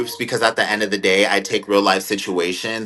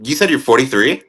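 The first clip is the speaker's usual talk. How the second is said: surprised disbelief; 5 semitones higher, 5 dB louder than usual. Real, not acted. Hearing the host is forty-three.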